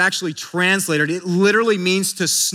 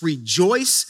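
slow scripture reading; 6 semitones lower, much slower than usual. Shown as a demonstration. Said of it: "Romans twelve fifteen tells us".

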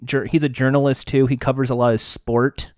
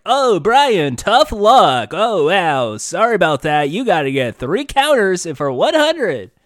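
stereotypical game show host; 3 semitones higher, 5 dB louder, slower than usual. Retold or imitated. Podcaster mocking a stereotypical host, loud and cheesy. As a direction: ham up a fake cheery game show host. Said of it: "we mean, like, stereotype".

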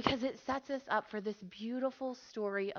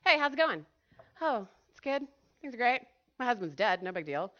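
fake cheerful. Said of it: "what the front sounds like".

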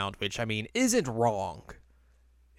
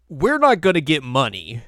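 alarmed outburst; 3 semitones higher, 7 dB louder than usual. Retold or imitated. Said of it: "and she's like".

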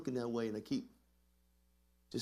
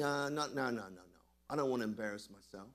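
intimidated; 3 semitones lower, faster than usual. Acted. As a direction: act out backing away, voice sinking. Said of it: "You get intimidated".

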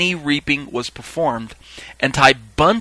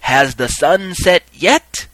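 slow, loud ceremonial question; calling out; 5 semitones higher, 7 dB louder, much slower than usual. Acted. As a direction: call it out to a crowd, pitch rising. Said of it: "the appointed reaper called out".

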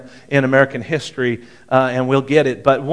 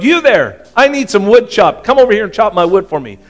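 higher, louder mock call across the road; bossy shout-out from the porch, half-acted; retold call-out; 5 semitones higher, 4 dB louder than usual. Rich woman calls to passing professor, mock shout. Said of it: "she yelled out to him".

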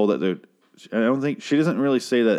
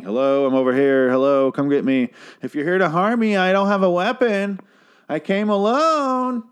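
higher, louder calling like a Jewish sketch character; 9 semitones higher, 3 dB louder than usual. Retold or imitated. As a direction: parody Elsie as a comedy sketch Jewish voice. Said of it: "serious Jew there in the end".

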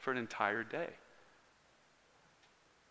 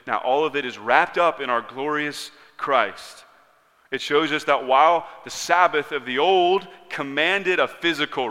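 louder, emphatic preacher cadence; emphatic preaching; 3 semitones higher, 7 dB louder than usual. Real, not acted. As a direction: drive the contrast home from the pulpit.

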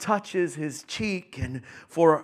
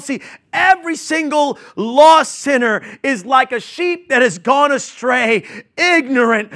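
loud, high preaching build; preaching at full force; 7 semitones higher, 10 dB louder than usual. Acted. Preacher describing lost sinners to his church, loud preaching. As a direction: preach it out to the congregation.

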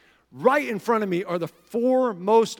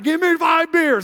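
put-on high, loud party-girl holler; mock a rowdy girl at the bar; pitched-up, louder imitation of a drinker; college girl ordering; 9 semitones higher, 6 dB louder than usual. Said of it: "they're like".

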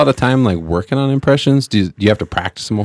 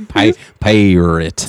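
slow Jamaican attempt with Irish vowels; Irish-sounding Jamaican; much slower than usual. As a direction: draw the word out, slipping Irish. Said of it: "All of a sudden it's Irish".

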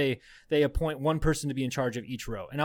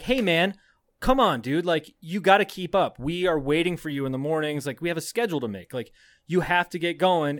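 intense scolding; 2 semitones higher, 3 dB louder than usual. Retold or imitated. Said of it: "I was like".

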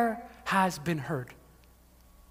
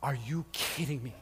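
incredulous wife; 7 semitones lower, 12 dB quieter than usual. Retold or imitated. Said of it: "And Elizabeth's like".

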